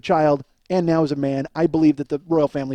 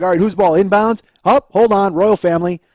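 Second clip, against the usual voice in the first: raised voice, mock game chatter; calling out on court; 5 dB louder than usual. Player calls to teammates mid-game before the prank, calling out. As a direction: call it out to the players.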